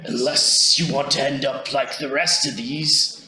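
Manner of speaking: lightly raspy threat; raspy menacing voice. Acted. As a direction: intimidate them with a touch of rasp. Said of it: "in a bit of a raspy voice".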